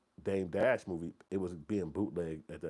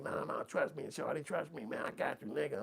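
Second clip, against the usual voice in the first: smooth reassurance; 8 semitones higher than usual. Retold or imitated. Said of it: "And he was like".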